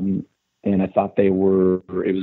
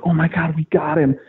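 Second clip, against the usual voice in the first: higher, thrilled exclamation; elated; 5 semitones higher than usual. Retold or imitated. Alone in the car after the text, elated. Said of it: "and I'm like".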